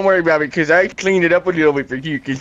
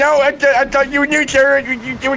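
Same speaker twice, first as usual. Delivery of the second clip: a lightly higher, eager servant voice; lost, fussing over his boss; high-pitched sidekick voice; 9 semitones higher than usual. Acted. Barbell calls sir, lost.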